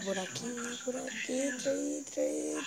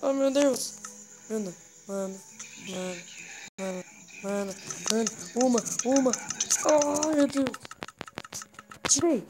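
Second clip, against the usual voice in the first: panicked; 2 semitones higher, 3 dB louder than usual. Real, not acted. Panicking at the cross.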